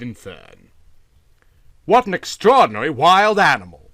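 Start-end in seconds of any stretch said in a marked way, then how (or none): 1.9-3.9 high, loud startled outburst; amazed cry after a fall; startled exclaim. A narrator's reading. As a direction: blurt it out, shaken. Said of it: "said Van Cheele as he picked himself up".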